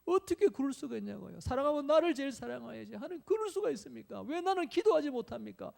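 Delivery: retold indignant prayer, pitched high; acting out an aggrieved complaint; resentful outburst. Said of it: "원망하면서 막 분통을 터뜨리면서, 막 눈물이 막 나는".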